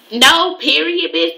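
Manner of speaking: high, slow, snippy "No, period, bitch."; mock her clipped final No; imitating a curt text reply; curt no with a pause. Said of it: "that means she said it like this".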